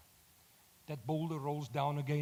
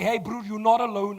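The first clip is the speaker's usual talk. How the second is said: reassuring; 6 semitones higher, 7 dB louder than usual. Retold or imitated. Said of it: "look you in the eye and say".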